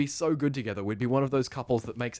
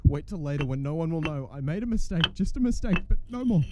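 unhinged; 2 semitones higher than usual. Acted. Unhinged resolve after the crime.

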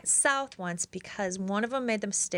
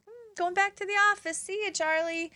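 sly fake-out; 11 semitones higher than usual. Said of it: "And I'm like".

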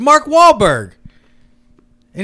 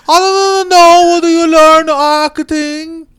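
bad Hispanic accent; 5 semitones higher than usual. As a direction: wail it in a terrible Hispanic accent. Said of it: "the worst Hispanic accent".

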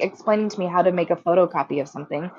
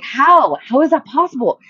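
high, loud, incredulous questioning; exasperated disbelief; 6 semitones higher, 5 dB louder than usual. Retold or imitated. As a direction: demand an explanation from a hapless brother. Disbelief at brother's new mistake.

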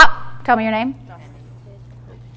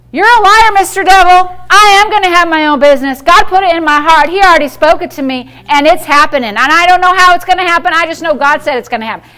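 rebuking the devil. Pretend. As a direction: tell the devil off with full force.

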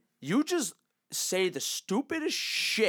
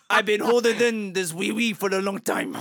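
badly faked French accent; mock French confession; hammed-up French accent; 3 dB louder than usual. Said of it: "so funny about my accent".

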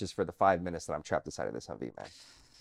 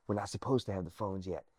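hushed whisper, like sneaking; 5 dB quieter than usual. Retold or imitated. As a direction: whisper it secretly. Sneaking phone calls in the dark.

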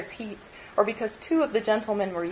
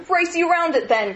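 high, loud playful challenge; crying out; 9 semitones higher, 5 dB louder than usual. A narrator's reading. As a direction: call the dare out gleefully. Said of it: "cried Freddie".

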